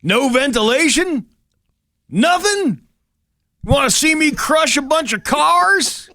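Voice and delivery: high, loud, drawn-out flirty voice. Pretend. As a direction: play a sultry date over the top.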